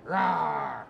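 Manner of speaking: low crabby bear roar; bear growl. Shown as a demonstration. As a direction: growl like a grumpy papa bear. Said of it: "My papa bears were crabby".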